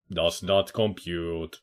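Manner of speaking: slow, soft deadpan robot voice; quiet mock robot. Player jokes his brain can't process it, slow soft robot voice. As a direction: murmur it like a confused machine, slowly. Joking robot line, then repeat.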